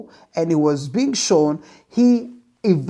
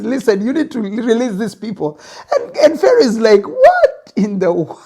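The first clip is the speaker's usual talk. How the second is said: laughing while telling. Real, not acted. Retelling Moses and Pharaoh, laughing.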